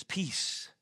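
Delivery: hushed whisper of peace; whispered command. Retold or imitated. Jesus hushes the storm with a whispered word.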